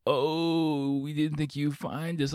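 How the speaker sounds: mock surprised friends. Friends in the bar react to his entrance, mock surprise. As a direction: friends gasp, hammed up.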